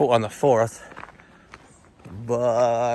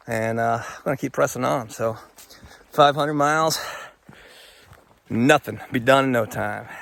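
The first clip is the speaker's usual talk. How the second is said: little critter voice; 2 semitones higher than usual. Pretend. Voicing the little guy found.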